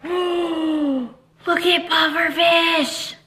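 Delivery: slow drawn-out astonishment; slow wide-eyed amazement; amazed. Acted. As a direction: stretch it out in awe. Reading picture book to kids.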